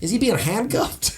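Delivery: high slow drawled Texas question; Texas accent. Retold or imitated. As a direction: ask it in a Texan twang. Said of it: "Sean Dures is saying something like".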